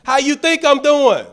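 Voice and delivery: exasperated inner voice; scolding myself. Retold or imitated. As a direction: chide yourself for a dumb question. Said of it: "I was like".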